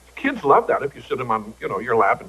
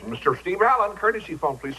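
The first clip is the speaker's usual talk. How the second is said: imitated high-pitched courtesy-phone page; paging announcer; 6 semitones higher than usual. Storyteller imitating an operator paging him to the phone, high announcer call. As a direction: mimic a public page, pitched up.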